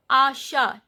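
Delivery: "asha" with SH and open final vowel; silent T. Shown as a demonstration. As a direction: end "asha" on A, no T. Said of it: "T is not pronounced".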